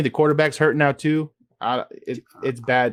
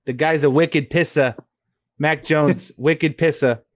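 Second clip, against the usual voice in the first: mock Boston accent. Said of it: "do the accent of the other team".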